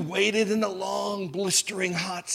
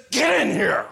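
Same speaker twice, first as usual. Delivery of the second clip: bossy snap; 3 semitones higher, 4 dB louder than usual. Retold or imitated. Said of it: "he says".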